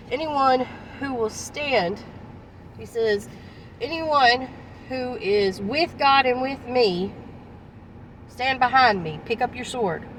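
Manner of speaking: slow, solemn summons; rally them slowly behind you; commanding call. Retold or imitated. Moses calling the faithful to stand with him, slow and solemn.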